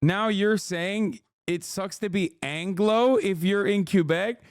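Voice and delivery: high, slow, incredulous question; can't believe what chat just said; baffled disbelief. Real, not acted. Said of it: "Wait, what?".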